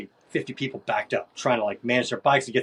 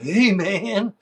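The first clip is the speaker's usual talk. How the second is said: higher, louder drawn-out greeting; retold holler; 8 semitones higher, 6 dB louder than usual. Crusty dude greets the rider, retold holler. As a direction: call out a mock hearty hello.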